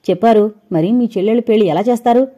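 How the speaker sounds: mocking question, a bit fast; sarcastic. Wife taunting her husband about his sisters' weddings, sarcastic. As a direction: needle him with sarcasm. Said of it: "వెటకారంగా అడిగింది".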